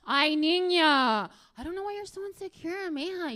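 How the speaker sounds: put-on mother fed up with her girl's whining; exasperated mom. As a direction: stretch it out in loud exasperation. Mother dismissing crying daughter.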